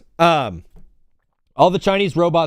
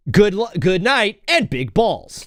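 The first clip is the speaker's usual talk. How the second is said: sign-off quote; 5 semitones higher, slower than usual. Retold or imitated. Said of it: "He would sign off every night".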